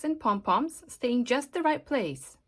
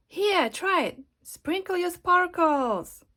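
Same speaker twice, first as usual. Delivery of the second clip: coaxing Glue; 7 semitones higher, slower than usual. Acted. Glue coaxes Glitter to try.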